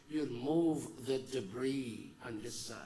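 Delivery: ordinary delivery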